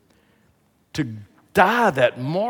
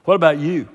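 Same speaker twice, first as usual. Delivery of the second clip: "you" put to the listener in a louder voice; emphatic question; 4 semitones higher, 8 dB louder than usual. Acted. Jesus asking his disciples by the fire, emphatic question. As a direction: push "What about you?" out firmly. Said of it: "here's the way he asked the question".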